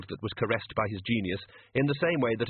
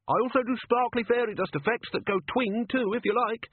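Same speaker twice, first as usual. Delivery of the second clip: much higher, pleading squeaky voice; desperate gnome; 12 semitones higher than usual. A narrator's reading. Gnome pleading with Ridcully, high and desperate. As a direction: beg to stay, squeaky. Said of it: "gnome desperately".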